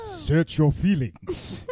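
slow heavy Vader line; slow villain voice. Acted. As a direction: draw it out like Vader. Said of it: "Vader line quoted".

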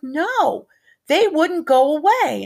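put-on high, slow little girl's protest; a small child insisting it was real; upset child voice. Toddler telling grandma the visitors would not leave.

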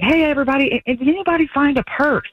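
mock manager's call to the kitchen; calling out to the staff. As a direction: call out to everyone in the back.

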